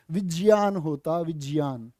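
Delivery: विज्ञान said as विग्यान, with ग्य; correct pronunciation. Shown as a demonstration. Teacher showing students how to say विज्ञान. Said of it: "बाबा ठीक बोल रहे हैं".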